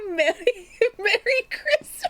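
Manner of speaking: can barely get the words out for laughing; helpless giggles. Real, not acted. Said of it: "I'm sobbing".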